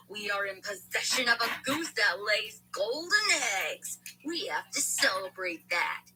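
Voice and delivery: soothing them like a patient schemer; calm voice. Acted. Walter reassures the family, slow calm hush. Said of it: "Walter continued in a calm voice".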